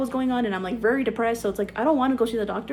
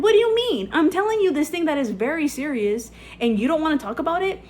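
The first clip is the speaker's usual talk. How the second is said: incredulous outburst; 6 semitones higher than usual. Retold or imitated. Retold outburst at the man.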